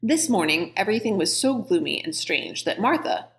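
lively read-aloud with voiced characters; story narration. A narrator's reading. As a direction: read the scene like a storyteller to kids. Reads novel aloud.

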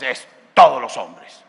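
slow, loud weight on TODOS; low, weighty stress on "todos"; emphatic declaration. Real, not acted. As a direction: hit "todos" hard and stretch it out. Hammers home what God says.

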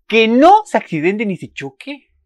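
high, loud, slow worried plea; anxious plea. Real, not acted. Viewer fearing a crash in the rain, pleading loudly. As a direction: beg the show to spare him.

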